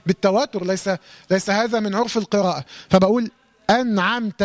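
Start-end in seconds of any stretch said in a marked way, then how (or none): 3.7-4.4 أنعمت with a vowelless nun, "an-amta"; still nun. Shown as a demonstration. Teacher shows how to still the letter, clean nun in أنعمت. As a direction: close the nun of أنعمت cleanly before the ayn. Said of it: "سكن".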